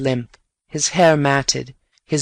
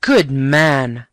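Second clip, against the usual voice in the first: glad cry; 3 dB louder than usual. Acted. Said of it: "I cried".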